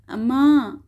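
mild whimpering call of "అమ్మా"; lightly voiced little boy crying for his mother; a touch of tearful pleading; pitiful crying call. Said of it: "దీనాతి దీనంగా ఏడుస్తూనే ఉన్నాడు".

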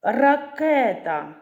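"Ракета" slow, with the second syllable stressed high; наголос на другому складі. Shown as a demonstration. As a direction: stretch and punch the middle syllable of "Ракета". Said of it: "На другий". («Ракета» повільно, з сильним наголосом на другому складі)

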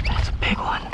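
hushed, voiceless awe; breathless awe. Real, not acted. Angler to himself over a huge catch, hushed awe. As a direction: say it under your breath, amazed.

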